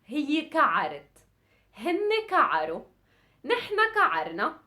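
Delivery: quick-fire drill; rapid teacher recital; fast conjugation drill. Shown as a demonstration. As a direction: rattle through the forms. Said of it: "really quick".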